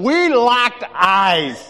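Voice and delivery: stretched-out, high and loud, like slowed film; dramatic slow-motion boom. Acted. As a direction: drag every word out in slow motion. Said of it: "all of a sudden it slows down".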